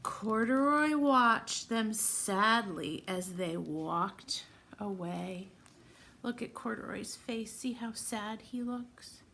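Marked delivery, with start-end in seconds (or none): 0.0-5.5 slow, sorrowful read-aloud; sad storytime narration. Acted. Teacher reading the bear being left behind, slowly and sadly. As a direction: let it sink slowly like a sad page. Reads picture book to children.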